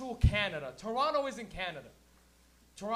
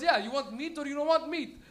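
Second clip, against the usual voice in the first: street meat vendor; 5 semitones higher, 5 dB louder than usual. Retold or imitated. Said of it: "He goes".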